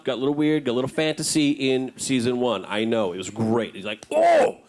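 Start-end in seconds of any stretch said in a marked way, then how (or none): 4.1-4.6 high, loud "oh!" of amazement; amazed outburst. Acted. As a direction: blurt it out, mind blown. Acting out reaction to the book.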